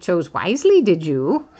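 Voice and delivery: a mock Yoda, words turned around; amateur Yoda voice; Yoda impression. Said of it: "Yoda would have said".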